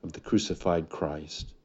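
earnest, unhurried pastoral prayer. Acted. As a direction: reverent closing prayer over the congregation. Pastor prays before the message.

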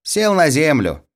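put-on high boyish call; mock announcing shout. A narrator's reading. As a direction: cry it out high, as in a game. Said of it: "крикнул Мишка".

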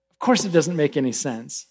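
low, soft, resigned answer; matter-of-fact scorpion. Acted. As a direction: concede it quietly, pitch dropped. Scorpion calmly answers the drowning frog.

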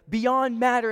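high, loud retold exclamation; building excitement.

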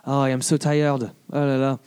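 lightly imitated French accent; weary French comedian's accent, lightly done; French accent, tired. Imitating a comedian tiring on stage, French accent. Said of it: "with a French accent et tout ça".

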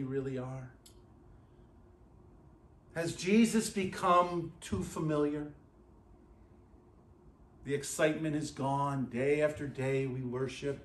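low, soft, searching appeal; hushed, sober preacher's reflection; solemn questioning. Real, not acted. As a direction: drop right down and gently challenge each listener.

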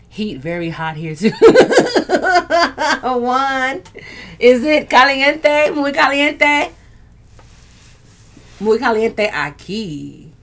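high, loud, laughing caliente; laughing mock Spanish. Real, not acted. Teasing viewers with Spanish slang, high and laughing. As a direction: play it up, giggling.

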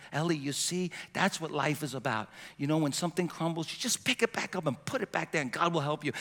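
put-on soft, tender words to a child; gentle comforting grandpa. Grandpa softly comforts his granddaughter at the beach, tender. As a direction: soothe a little girl gently.

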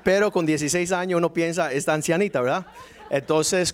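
chuckling through the words; amused, laughing aside. Real, not acted. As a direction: laugh while telling it. Laughing aside about old lady.

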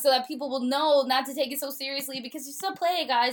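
panicked Shakespeare. Retold or imitated. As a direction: blurt it out, then calm down.

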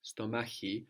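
soft, hissy ch before the i in "stomachi"; soft Greek chi. Shown as a demonstration. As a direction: say "stomachi" with a soft German "ich" sound. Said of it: "It's kind of soft".

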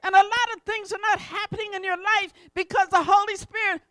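loud, emphatic preacher delivery; forceful preaching. Acted. Preacher to congregation on God's word, preaching forcefully. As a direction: preach it out with conviction.

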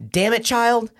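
high-pitched mock exasperation; retold teacher scolding. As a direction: imitate a startled teacher telling off a kid.

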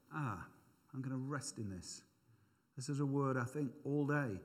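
soft, relaxed and content; restful sigh. Shown as a demonstration. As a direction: settle in like a hammock. Resting in word, hammock image.

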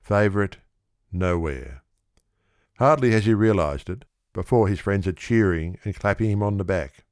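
plain reading voice

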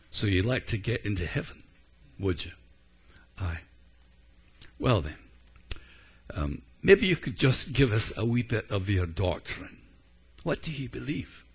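a light Scottish brogue for Saint Peter; preacher lightly voicing Saint Peter at the gate, Scottish brogue. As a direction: tease the thief in a mild Scottish lilt. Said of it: "in Alistair's brogue".

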